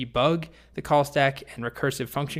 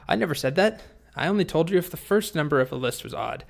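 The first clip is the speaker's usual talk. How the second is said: higher-pitched indignant denial, easing off; indignant protest; 4 semitones higher than usual. Acted. Dragon objects to the boy's conclusion, indignant. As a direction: push back, mildly affronted.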